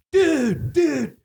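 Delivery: very high-pitched imitated "dude"; mock high call. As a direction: squeak it out high, mimicking the goofballs. Acting the trio under the sheet.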